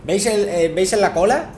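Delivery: excited. Real, not acted. Spotting tail during boss fight.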